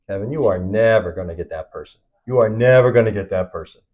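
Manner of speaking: quoted doubter laying down NEVER with weight; emphatic naysaying. Retold or imitated. Naysayers warning Kevin about the top agent, emphatic. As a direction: hit NEVER hard, imitating a doubter.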